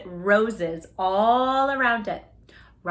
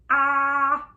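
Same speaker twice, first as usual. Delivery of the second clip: mild ah; 4 semitones higher, 6 dB louder than usual. A narrator's reading. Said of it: "said Robert".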